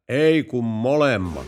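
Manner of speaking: slow, drawn-out, laughing through it; can't hold back the laugh at the punchline. Acted. (hidas, naurahteleva loppukaneetti)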